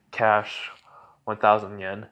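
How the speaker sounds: a hint of a demon naming its price; demonic voice. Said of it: "in the demonic voice".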